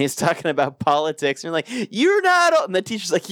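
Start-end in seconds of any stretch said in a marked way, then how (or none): 1.9-2.7 mock scold. Quoting teacher scolding.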